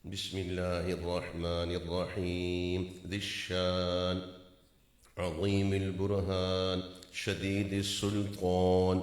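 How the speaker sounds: slow, partly chanted invocation; chanted Arabic prayer; slow prayer recitation. Acted. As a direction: intone the prayer slowly.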